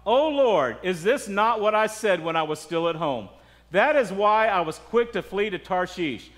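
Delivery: mildly acted protest to God; complaining prayer. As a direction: open emphatically, then press the grievance. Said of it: "That's a complaint".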